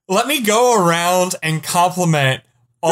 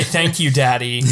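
mock henchman thanks; 7 semitones lower than usual. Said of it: "I wanted each of them to say".

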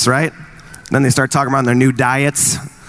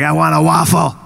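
put-on kid voice. Kid standing up in bed.

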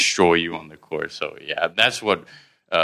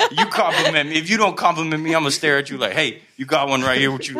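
mock cocky challenge; 8 semitones higher than usual. Boasting about being complimented.

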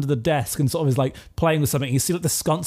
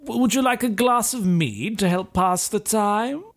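higher, sugary offer of a drink; smarmy host; 6 semitones higher than usual. Acted. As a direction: coax her sweetly into drinking. Hector offers mead, voiced higher.

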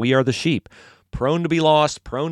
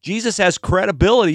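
ordinary talk

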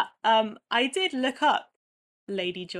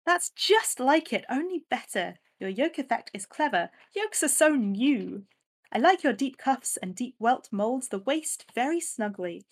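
lightly posh society lady, a bit higher; 3 semitones higher than usual. Retold or imitated. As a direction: keep up the posh lady read. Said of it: "I'm gonna try and put on a posh voice".

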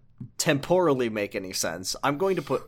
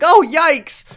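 high squeaky yikes of surprise; startled yelp; 12 dB louder than usual. Retold or imitated. Greaser trips into Kiryu, high startled yelp. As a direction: yelp it out in high-pitched alarm. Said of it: "he's like".

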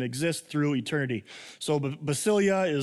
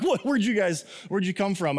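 startled question; 3 semitones higher than usual. Acted. Disciples startled by two angels.

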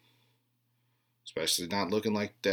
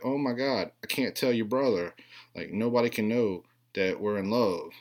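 mock girl gushing; 3 semitones higher, 3 dB louder than usual. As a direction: gush it like a lovestruck teen girl. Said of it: "she's like".

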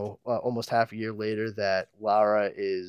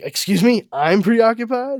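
high, indignant disbelief; much higher and louder, offended; indignant Lara; 13 semitones higher, 6 dB louder than usual. Retold or imitated. Lara offended by her husband's jab, higher and louder in disbelief. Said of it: "she's like".

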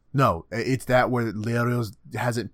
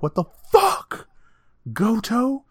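shocked Killua; 11 semitones higher than usual. Retold or imitated. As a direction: shriek it like a startled kid. Acting out Killua's outburst.

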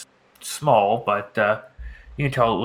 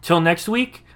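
podcast outro; 3 semitones higher than usual. Acted. Host thanks listeners at episode's end, lively outro read. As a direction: read it as a show host's closing plug.

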